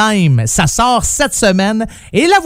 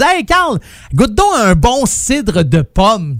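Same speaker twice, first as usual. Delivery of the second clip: coaxing friend voice; 3 semitones higher, slower than usual. Retold or imitated. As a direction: urge him to taste it. Imitating people urging him.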